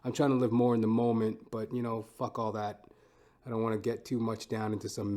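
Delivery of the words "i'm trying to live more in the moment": ordinary delivery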